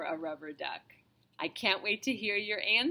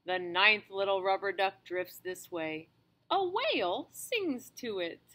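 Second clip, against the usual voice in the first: gentle storybook reading voice; reading to children. Acted. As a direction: read aloud to a small child. Reads a picture book to a child.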